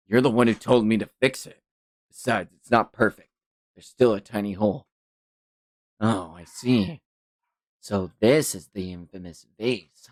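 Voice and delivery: lightly voiced, low-key character; subdued character voice. Two characters discuss the mended vase, low and subdued. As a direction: answer quietly and without fuss.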